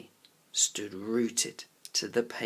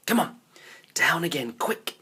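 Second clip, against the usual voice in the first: hurrying; 5 semitones higher, 5 dB louder than usual. A narrator's reading. Urging friend to hurry.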